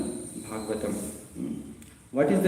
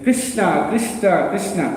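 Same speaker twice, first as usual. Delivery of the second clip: a touch higher, sweet calling of the name; Radharani's voice; 4 semitones higher than usual. Retold or imitated. Parrot repeating Krishna's name in Radharani's lightly voiced tone. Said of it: "He will say in Radharani's voice".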